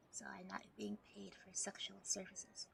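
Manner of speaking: hushed cheeky whisper. Real, not acted. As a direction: whisper it slyly. Cheeky aside.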